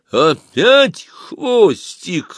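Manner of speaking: «Опять хвостик!» barked high, loud and very slow. Acted. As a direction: blast it so the hall hears, stressing «опять». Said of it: "рявкнул Помреж так громко".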